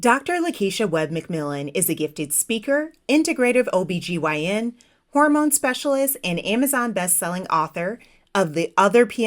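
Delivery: polished announcer read with lifted phrase starts; formal bio read for a show; podcast guest introduction. Acted. Host reads the guest's bio.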